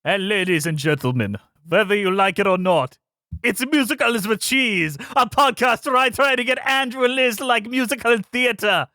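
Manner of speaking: put-on hammy Eastern European accent host voice. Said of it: "an Eastern European accent this entire time".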